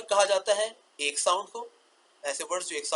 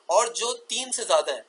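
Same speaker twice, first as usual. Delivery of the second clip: ordinary talk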